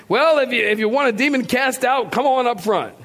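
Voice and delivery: lightly mimicked preacher, pitched high; preacher calling people forward. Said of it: "And the preacher".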